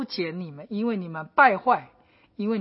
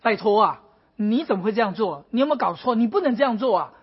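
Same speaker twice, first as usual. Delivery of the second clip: alarmed protest. Retold or imitated. Habakkuk frightened by God's answer, protesting. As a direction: push back at God in disbelief. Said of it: "他说".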